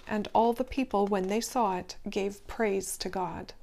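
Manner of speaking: steady, measured Bible reading; scripture reading. A narrator's reading. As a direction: read the passage aloud to the listeners. Reads scripture passage aloud.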